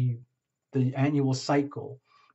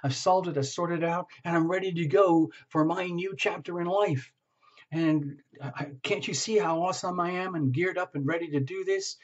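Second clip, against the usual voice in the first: fired-up client; 3 semitones higher than usual. Pretend. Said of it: "you're all fired up and you're saying".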